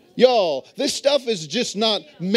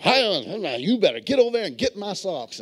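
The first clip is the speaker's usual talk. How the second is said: hammed-up assertive husband, quick and bossy; imitated bossy order, rushed out; mock assertive. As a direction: act out a husband trying to be assertive. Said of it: "learn how to be assertive".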